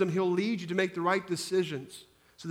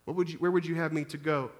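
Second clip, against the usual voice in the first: soft prayer; 4 dB quieter than usual. Pretend. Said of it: "looking at Him and saying".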